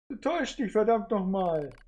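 hoch und gepresst, langsam; verzweifelter Widerspruch. Acted. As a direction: mit letzter Kraft dagegenhalten. Android wehrt sich verzweifelt. (verzweifelter Widerspruch)

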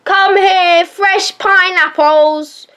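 playful street seller shout; vendor calling. Pretend. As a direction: cry out pineapples to passers-by, slowly.

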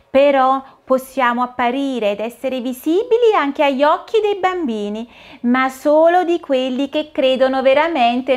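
put-on fairy saying goodbye to a child; lightly voiced fairy godmother. (fata madrina, voce dolce e leggera)

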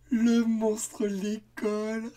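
high, loud, very slow through laughter; doubled up laughing. Acted. Children repeating the pun, doubled over laughing. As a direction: squeeze the words out between giggles. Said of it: "en se tordant de rire".

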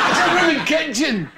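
exasperated mother's call, laughing through it; mother shouting back. Retold or imitated. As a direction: scold the kids across the house. Mother yelling back at kids.

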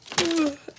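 sleepy yawning sigh; real just-woke-up yawn. Real, not acted. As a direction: let out a tired yawn. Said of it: "I'm sorry I'm yawning".

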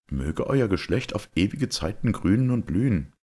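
a hint of a gallant young guest; earnest young knight. Georg returns the knight's toast, mildly rousing.

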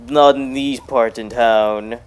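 a hint of a slow sheriff drawl, lightly voiced; mock tough-guy line. Gamer warning off a villager, slow mock lawman voice. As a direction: slowly lay down the law like a lightly played lawman. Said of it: "I don't know why I said it like that".

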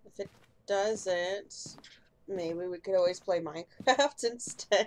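glitchy robot voice over a bad connection. Real, not acted. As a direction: sound like a choppy robotic call. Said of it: "You sound like a robot".

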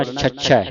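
ਛੱਛੈ with a held double chh; tight doubled consonant. Shown as a demonstration. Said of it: "ਅਧਿਕ ਲਾ ਕੇ ਕੱਸ ਕੇ ਬੋਲਣਾ".

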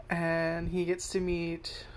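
ordinary delivery

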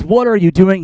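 mildly yelled rebuke, acting it out; angry confrontation. Moses confronting the idol worshippers, acted angry confrontation.

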